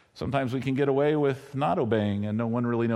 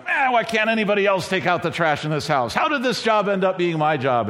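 put-on grumbling kid; 4 semitones higher, 3 dB louder than usual. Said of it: "this is where I'm going".

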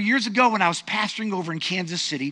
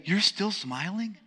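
slower and softer, rising on smiling, a teasing double-take; playful surprised question; 4 dB quieter, slower than usual. Shown as a demonstration. Pastor models a greeting for the congregation, teasing disbelief. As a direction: ask it like you can't believe they're grinning. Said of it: "Turn to the person next to you and say".

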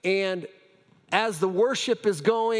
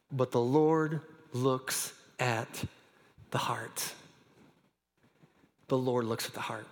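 quiet preacher's emphasis; hushed; 7 semitones lower, 6 dB quieter than usual. Acted. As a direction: let it sink in, almost under the breath. Preacher repeats key line softly.

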